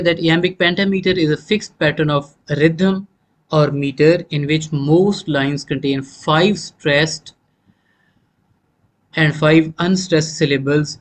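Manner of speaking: slow, word-by-word dictation pace. Shown as a demonstration. Teacher dictating a definition to students, slow and deliberate. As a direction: spell it out slowly so students can write.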